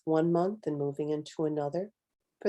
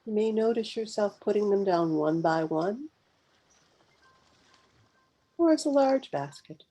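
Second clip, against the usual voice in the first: unhurried meditation guide, long pauses between phrases; guided meditation; 3 semitones higher, 3 dB louder than usual. Real, not acted. Guide leading live listeners through a mindful pause, guided meditation. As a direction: guide listeners gently inward, phrase by phrase, leaving space to breathe.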